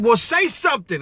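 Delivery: lightly voiced fed-up daughter; impatient daughter. Daughter prodding her silent dad, mildly impatient.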